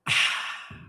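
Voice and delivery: long airy "ahh" after a sip; satisfied sigh. Real, not acted. Streamer sipping instant coffee after a toast, satisfied sigh. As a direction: let out a refreshed post-sip sigh.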